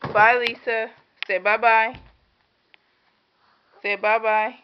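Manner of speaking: high, loud sing-song coaxing. Real, not acted. Mother coaxing her baby daughter, high sing-song baby talk.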